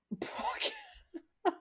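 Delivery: tiny high-pitched chicken squawk; playful little hen imitation; chicken clucking. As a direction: squeak out a soft, high "bawk" through laughter. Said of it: "like how a chicken talks".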